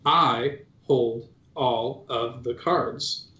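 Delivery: very slow, drawn-out droid voice speaking with a twin; menacing slow robot declaration; droid chorus in unison. Acted. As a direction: spell out each word slowly as two robots at once. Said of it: "saying the words in unison".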